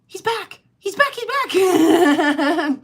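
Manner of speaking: high, giddy squeal that breaks into a laugh; giddy, laughing high-pitched cry; excited squeal. Retold or imitated. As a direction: squeal like you can't believe he came back. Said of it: "I was like".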